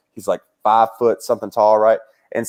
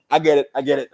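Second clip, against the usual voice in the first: security calming; faster than usual. Retold or imitated. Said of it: "And they go".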